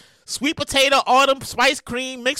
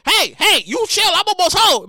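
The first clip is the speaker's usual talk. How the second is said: pleading driver; 4 semitones higher, 4 dB louder than usual. Acted. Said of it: "And you're like".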